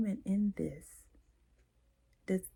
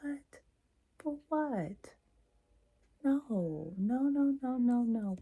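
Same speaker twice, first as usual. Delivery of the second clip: surprised protest; 5 semitones higher, slower than usual. Acted. Acts alarmed coworker.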